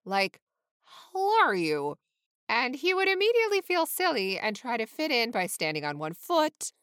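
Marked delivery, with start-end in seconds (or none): 0.8-2.0 hello and how are you mashed into one drawn-out "How are you"; blurted, run-together "How are you"; garbled scared greeting. A narrator's reading. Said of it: "hello would turn into some sort of a combination".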